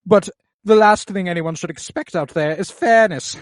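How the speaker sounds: mocking, condescending knight voice, pitched high and loud; smug knight. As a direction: lecture him like a smug veteran. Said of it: "And Criston's like".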